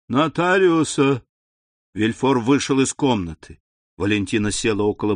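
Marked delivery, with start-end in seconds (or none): 0.1-1.2 put-on feverish old lady, higher and louder; louder insistent cry. A narrator's reading. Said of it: "повторяя".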